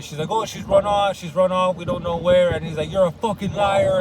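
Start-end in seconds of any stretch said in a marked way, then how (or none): 0.3-2.5 higher, louder voiced excuse; pleading woman. Fenya answers Dimitri about Grushenka, mock pleading. 2.9-4.0 higher, louder retold accusation; furious. Dimitri accuses the maid of lying, mock furious. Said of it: "he's fucking furious".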